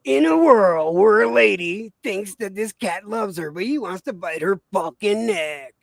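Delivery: slow, low movie-trailer announcer; mock-epic announcer, drawn out. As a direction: intone it like a dramatic film trailer. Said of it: "I did the announcer".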